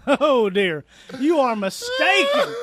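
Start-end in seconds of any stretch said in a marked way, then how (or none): 1.2-2.5 high mock cry. Mock landlord cries out.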